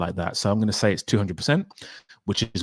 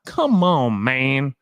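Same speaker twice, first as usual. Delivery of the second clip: exasperated; 4 semitones higher, much slower than usual. Retold or imitated. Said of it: "I was like".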